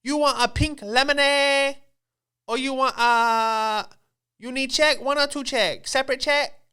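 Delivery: exaggerated put-on Asian accent; mock Asian accent. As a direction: rattle off server questions in a fake Asian accent. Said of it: "with an Asian accent".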